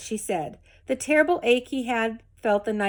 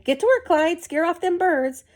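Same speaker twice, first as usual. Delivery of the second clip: higher, louder call to get to work; old woman's order; 8 semitones higher, 4 dB louder than usual. A narrator's reading. Old woman ordering the scarecrow rabbit, higher and louder. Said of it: "The old woman clapped her hands".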